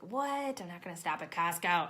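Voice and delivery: mock-balk at the idea, loud; startled mock protest; incredulous. Retorting to her own intuition.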